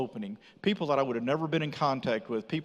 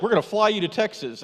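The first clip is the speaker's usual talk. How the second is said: mock stern sentence, higher and louder; like a punishment; 7 semitones higher, 6 dB louder than usual. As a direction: hand it down like a punishment. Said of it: "he talked to me like it was punishment".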